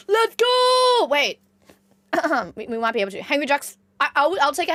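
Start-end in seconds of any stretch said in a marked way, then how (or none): 0.1-1.1 high, loud, drawn out let's go; high stretched hype shout; hype cheer. Real, not acted. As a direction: cheer like your team scored. Hype reaction.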